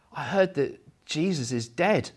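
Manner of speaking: mildly sad little girl, retold; sad child. Daughter answering her grandmother in the pushchair, mildly sad. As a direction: give a touch of a downcast young child. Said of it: "she looked quite sad".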